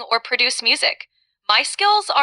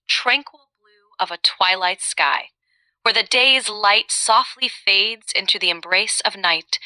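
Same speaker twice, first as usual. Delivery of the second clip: poetic. Shown as a demonstration. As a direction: describe it like a lyrical poem, easing into calm. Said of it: "in the most poetic way".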